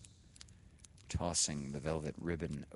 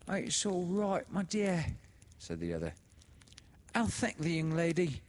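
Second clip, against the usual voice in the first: much higher and louder, syrupy; oily sister; 13 semitones higher, 4 dB louder than usual. A narrator's reading. Sister comforts the widow, much higher and syrupy. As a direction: soothe with fawning sweetness.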